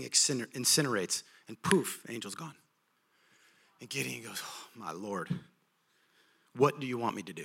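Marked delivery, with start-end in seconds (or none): 4.4-7.4 soft, low stunned whisper; overwhelmed and small; much softer, awestruck; awed hush. Retold or imitated. Gideon awed after angel vanishes.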